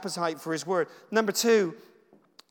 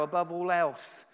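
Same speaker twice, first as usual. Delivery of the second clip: verse spoken aloud; slower than usual. Shown as a demonstration. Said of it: "speak it out loud like I'm doing right now".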